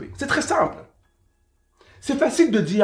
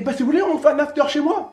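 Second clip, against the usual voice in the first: higher, laughing offer; tossing out an after-party with a laugh; laughing invitation; 8 semitones higher than usual. Retold or imitated. Friend inviting everyone back to his place, laughing. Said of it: "Il y a un des potes qui dit".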